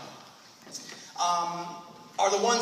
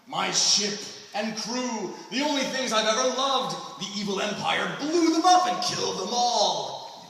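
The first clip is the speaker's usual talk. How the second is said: mock melodrama; 3 semitones higher, 4 dB louder than usual. Mocking a melodramatic backstory.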